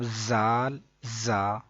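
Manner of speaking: زال and زا both begun with a buzzing z; wrong identical Z. Shown as a demonstration. Teacher shows students the mistake, زال buzzed like زا. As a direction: give زال the same hard z as زا. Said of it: "ایسے نہیں پڑھنا".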